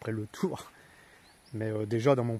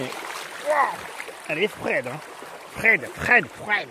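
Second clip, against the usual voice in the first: surprised; 5 semitones higher, 4 dB louder, slower than usual. Real, not acted. Feels cold water.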